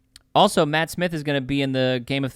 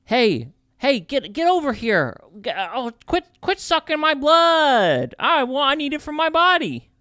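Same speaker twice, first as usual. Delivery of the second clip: cartoon New York accent; 9 semitones higher, 3 dB louder than usual. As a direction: shoo off a bloodsucker like a New York tough. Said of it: "super cartoon New York accent".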